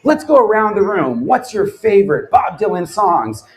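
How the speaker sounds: lightly voiced gushing fan; excited speaker. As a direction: gush about a singer to the room. Voicing excited contestant director.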